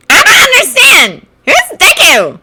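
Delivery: put-on high, loud girl's voice, puzzled; frowning confusion. Mina confused by the quarrel, high and loud. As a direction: blurt out in bewilderment. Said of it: "frowned Mina".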